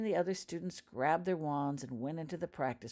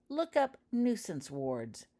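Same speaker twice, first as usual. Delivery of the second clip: higher, slow and loud; loud taunt; 7 semitones higher, 4 dB louder, slower than usual. Acted. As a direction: drag it out to mock. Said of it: "said Shirley Ogg loudly".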